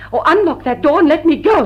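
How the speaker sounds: rising to a loud, angry demand. Acted. Fay demanding Lord Dilling unlock the door, loud and angry.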